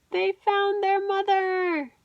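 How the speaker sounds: storyteller delighted at the reunion; joyful. A narrator's reading. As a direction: share the joy of the reunion.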